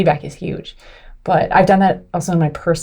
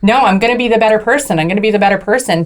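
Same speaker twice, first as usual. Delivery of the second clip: quick, repeated self-reassurance; hurried self-talk; 2 semitones higher, faster than usual. Retold or imitated. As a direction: talk yourself down in a rush. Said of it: "I was like".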